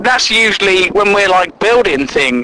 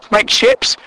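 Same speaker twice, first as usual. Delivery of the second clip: usual speaking voice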